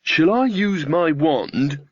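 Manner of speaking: put-on slow, unsure young witch asking; hesitant. Young witch Magrat timidly offering her wand to Granny, hesitant. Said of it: "said Magrat hesitantly".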